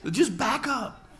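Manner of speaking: loud, high, laughing comeback; laughing retort. Real, not acted. Preacher laughing back at shocked audience, loud. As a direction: shout it back through laughter. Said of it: "laughing back at audience".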